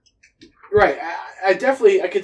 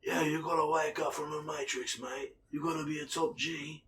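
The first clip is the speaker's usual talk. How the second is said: announcer voice; 8 dB quieter than usual. Pretend. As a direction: play a game announcer, understated. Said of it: "You sound like the announcer".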